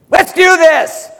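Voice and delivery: slow, drawn-out mock pep; mimicking the leader's slow rallying call; imitating his leader. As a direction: stretch it out like a goofy coach. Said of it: "She goes".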